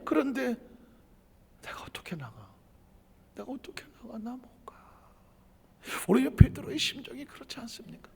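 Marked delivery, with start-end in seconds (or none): 1.6-4.8 faint whispered refusal; ashamed whisper. Pretend. A fallen believer whispering to himself that he can't go. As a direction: hide in shame, hardly breathing the words.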